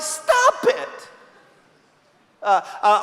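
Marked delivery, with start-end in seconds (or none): 0.0-1.1 high, curt "Stop it" from the sketch therapist; deadpan comic command; blunt psychiatrist. Retold or imitated. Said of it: "It's like".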